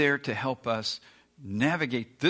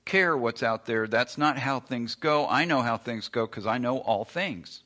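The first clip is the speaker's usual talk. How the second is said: smug dismissal. Retold or imitated. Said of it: "and you go".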